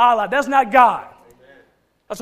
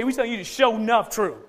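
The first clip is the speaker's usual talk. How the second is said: Georgia accent. Shown as a demonstration. Preacher showing his congregation how Georgia folks say it, light Georgia accent. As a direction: say it the way Georgia folks do, half-laughing. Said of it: "when we from Georgia, we say".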